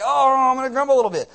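loud, high, hurried mock grumble; grumbling. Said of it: "we're gonna be like".

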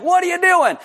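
jolted awake, yell at mom; startled yell. Retold or imitated. Teen self yelling at mom.

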